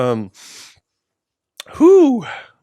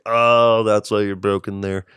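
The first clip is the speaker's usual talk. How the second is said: mock self-talk voice, a bit louder; voicing his own inner thoughts; 3 semitones higher, 4 dB louder than usual. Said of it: "that voice".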